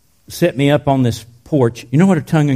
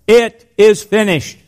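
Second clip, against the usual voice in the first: slow, high and weighty, each word apart; solemn slow quote; 9 semitones higher, 3 dB louder, slower than usual. Acted. Preacher quoting Jesus' last words to the congregation, slow and solemn. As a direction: let the last words land slowly.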